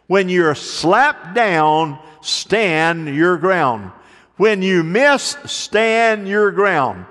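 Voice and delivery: each "stand your ground" drawn out slowly; slow preaching refrain. Acted. Preacher repeating the refrain to his congregation, slow and emphatic. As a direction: hammer the refrain home, slow and deliberate.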